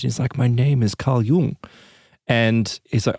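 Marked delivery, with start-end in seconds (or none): 0.4-1.6 imitating a slight German accent; lightly voiced German-accented entity. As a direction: put on a hint of German. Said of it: "speaking in this slight German accent".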